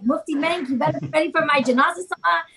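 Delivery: lightly voiced excitement over death; excited. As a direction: sound thrilled and ready. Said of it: "I'm just all excited".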